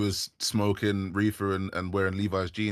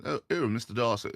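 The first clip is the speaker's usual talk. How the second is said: posh English swoon; 4 semitones higher than usual. Retold or imitated. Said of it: "you get that kind of".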